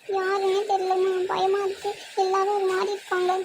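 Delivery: slightly whiny, tearful complaint; acted crying. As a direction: confide fear to mother, on the edge of tears. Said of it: "Sathya, ஏன் அழுகுற?". (அழுகை கலந்த பயக் குரலில்)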